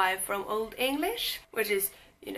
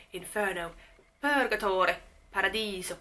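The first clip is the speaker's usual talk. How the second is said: lightly hammed-up Italian accent; mock Italian accent; 4 dB louder than usual. Shown as a demonstration. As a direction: say it with a playful Italian lilt. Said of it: "I did that with my voice. I'm not mocking you Italians".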